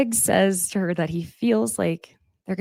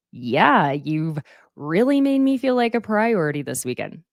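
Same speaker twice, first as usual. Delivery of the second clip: sarcastic. Retold or imitated. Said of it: "So, sarcasm".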